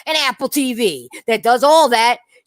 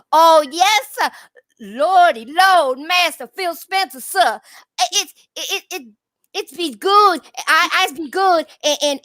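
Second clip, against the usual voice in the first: higher, stammering, hammed-up servile voice; mock groveling fan; 4 semitones higher than usual. Host mocks fans as bowing to their console boss, higher stammering grovel. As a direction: grovel and stutter like an eager yes-man, pitched up. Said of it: "That's how y'all sound".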